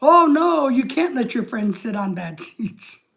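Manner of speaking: mock outrage, starting slow then jumping up; Steve Martin. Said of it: "And Steve Martin's like".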